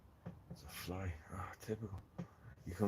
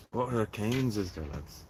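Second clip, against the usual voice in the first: louder, higher call to the lads; 3 semitones higher, 5 dB louder than usual. Real, not acted. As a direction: rouse the viewers, calling out. Rallying the stream chat.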